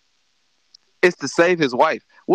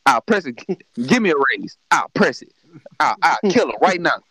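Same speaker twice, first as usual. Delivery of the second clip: mock threat; 5 semitones lower than usual. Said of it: "I will be at that button like".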